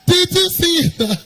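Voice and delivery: high, loud, slow told-you-so; slow pointed repeat; teasing reproach. Retold or imitated. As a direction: draw it out to rub it in.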